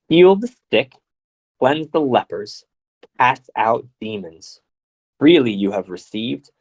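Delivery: deliberate, phrase-by-phrase proclamation; scripture reading. Acted. Reading out instructions to disciples, solemn scripture reading. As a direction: proclaim each instruction with weight.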